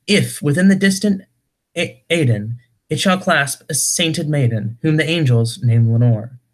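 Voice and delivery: dramatic verse reading, rising and falling line by line; poem recitation. Acted. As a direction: recite gothic verse with a lilting, swinging pitch. Reads a poem aloud.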